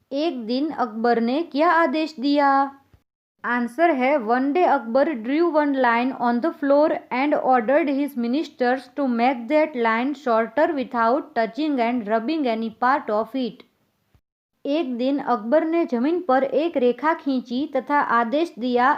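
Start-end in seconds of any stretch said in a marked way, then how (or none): 4.3-13.7 very slow, evenly spaced English read to pupils; slow dictation reading. Acted. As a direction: read it word by word so children can follow. Teacher reads answer slowly to class.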